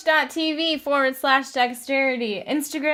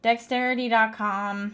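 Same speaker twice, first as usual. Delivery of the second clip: a touch glum, slightly lowered; sad; 3 semitones lower than usual. Real, not acted. Guest giving up his website to the co-hosts, a touch sad. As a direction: give up the web address with mild reluctance. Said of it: "Why do you sound so sad about that?".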